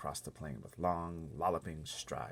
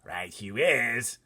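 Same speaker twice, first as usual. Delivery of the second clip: slow, much louder giant cry; blood bottler crying out; 5 semitones higher, 11 dB louder, much slower than usual. Acted. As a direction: gloat in agreement. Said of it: "cried the blood bottler".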